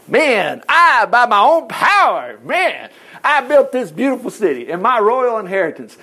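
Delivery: drawn-out, swaggering self-praise; hammed-up royal boast, stretching the words; boastful king. Preacher as the king on the palace roof, boasting.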